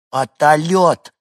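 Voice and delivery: громкий, высокий детский выкрик; протяни слово по-детски, звонко выкрикнув; детский восторг. Acted. Малышка показывает на вертолёт. (восторженно, по-детски)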